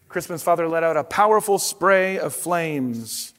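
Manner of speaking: put-on reading a picture book to kids; storyteller voice for a children's book; story narration. A narrator's reading. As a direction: read it like bedtime story time. Reads picture book aloud.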